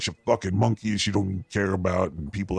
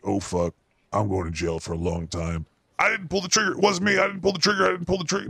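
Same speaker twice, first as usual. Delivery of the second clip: high, whiny panicked denial; mock a scared man pleading innocence; Alec Baldwin panicking; 8 semitones higher than usual. Comedian mocking Alec Baldwin denying it, high and whiny. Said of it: "Alec Baldwin ... was like".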